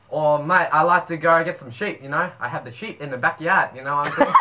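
Kiwi attempt slipping into Australian; badly faked New Zealand accent, half Aussie. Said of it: "You got Australian".

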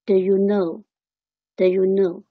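"Do you know" with do as "duh"; weak form of do. Shown as a demonstration. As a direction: model "Do" reduced to a short schwa. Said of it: "它是的". (示范do弱读成“的”)

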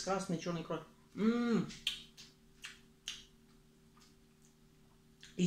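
chewing while talking; muffled by food; mouth full. Real, not acted. Seen 1: Bite at -1.0; chewing and grimacing visible until about 4.3s.

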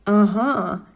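loud, delighted aha; cheered-up exclaim. Acted. The creature cheers up at the child's stubbornness, loud and delighted. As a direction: pounce on it with glee. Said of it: "kiáltott felvidulva".

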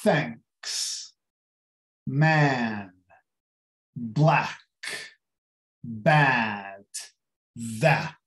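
thanks, man, black, bad, that spaced out with open A; low, separate words, opening the vowel in thanks, man, black, bad, that; open A sound. Shown as a demonstration. Teacher listing examples of the sound, each with open A. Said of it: "temos este som em palavras como".

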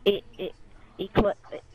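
loud, tripping over words in excitement; can't get the words out, hyped; excited stammer. Real, not acted. Stammering over a near trickshot.

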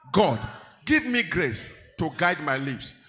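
loud, emphatic prayer; shouting prayer. Real, not acted. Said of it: "Shout it".

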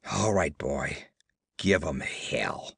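low hushed mutter, half whispered; grim whisper into the dog's ear before the fight. Acted. Man to his dog before the fight, low whispered mutter.

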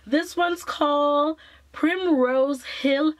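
slow, lightly put-on British accent; a playful British accent for the name; hint of a British accent, tongue in cheek; mock British accent. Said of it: "I don't know why an accent came about".

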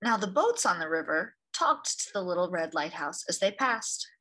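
gentle read-aloud storyteller; story narration. A narrator's reading. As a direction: read it like a picture book for children. Reads picture book aloud.

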